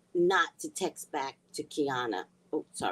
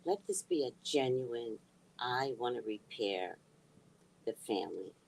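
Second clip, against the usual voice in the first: hushed prayer; 5 semitones lower, 5 dB quieter than usual. Retold or imitated. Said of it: "I just said to God".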